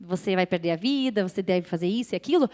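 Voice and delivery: lightly voiced inner tormentor, low and soft; tormenting inner voice. Inner voice threatens her with death, low quiet imitation. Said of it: "com aquela voz que me falava".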